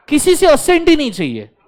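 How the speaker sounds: loud laughing punchline. Real, not acted. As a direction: laugh as you land the point. Teacher laughing at joke.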